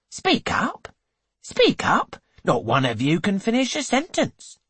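he loses patience with mumbling guests; impatient demand. A narrator's reading. Hancock demands guests speak.

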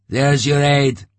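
high, loud and slow bitter cry; a bitter shout at the betrayal; bitter outcry. A narrator's reading. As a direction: spit it out in disgust. Artyom bitterly exclaims at the sight.

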